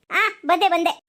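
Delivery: hurried reply across the room; calling back. Acted. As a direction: shout back that you are on your way. Answering the call.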